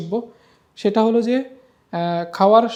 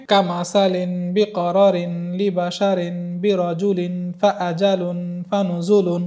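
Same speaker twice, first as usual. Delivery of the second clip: slow, drawn-out syllables carried on one breath; one-breath recitation; slower than usual. Shown as a demonstration. Teacher showing students the whole line in one breath, one-breath recitation. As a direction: recite the line evenly without pausing for air. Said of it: "আমি এক নিঃশ্বাসে পেরেছি".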